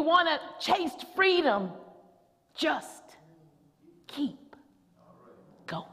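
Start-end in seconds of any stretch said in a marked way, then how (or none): 2.5-5.9 fading refrain. Acted.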